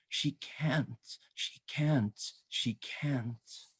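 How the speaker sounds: hushed, fading repetition; soft plea dying away; whispered refrain. A narrator's reading. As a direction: read it softly, nearly a whisper. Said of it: "Almost no one hears her whisper".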